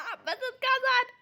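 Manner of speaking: عباس اتكسر said slowly through laughter; laughing. Real, not acted. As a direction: say عباس اتكسر while cracking up. Repeats it while still laughing.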